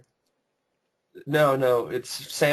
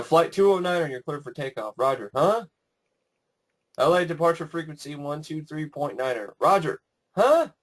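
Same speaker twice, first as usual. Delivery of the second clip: radio tower chatter; 3 semitones higher than usual. Retold or imitated. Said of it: "dialogue ... when they talk on the towers".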